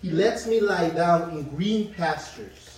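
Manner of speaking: slow, deliberate psalm reading; slow solemn reading to the congregation; scripture reading. Acted. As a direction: give each phrase weight, slowly. Reads Psalm aloud.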